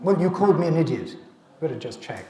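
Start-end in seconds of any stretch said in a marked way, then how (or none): 0.0-1.2 louder, quicker accusation; accusing complaint. Acted. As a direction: throw the complaint at them, a touch indignant. Acting out an accusing colleague.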